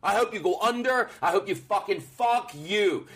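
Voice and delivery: high, heated cursing; angry rant. Real, not acted. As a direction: raise the pitch, spit it out. Venting at rude restaurant.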